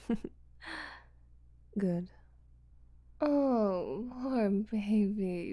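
normal talking voice

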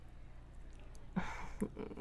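short breathy chuckle; quiet, teasing huff of laughter; taunting chuckle. Acted. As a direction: laugh softly under the breath. Teasing partner in audio roleplay.

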